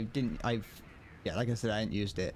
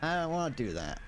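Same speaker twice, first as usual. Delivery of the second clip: retold refusal; 7 semitones higher than usual. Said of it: "and I was like".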